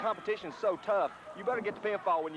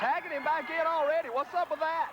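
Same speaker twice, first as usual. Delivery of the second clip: excited commentary; 10 semitones higher than usual. Real, not acted. Commentator reacting to quick tag.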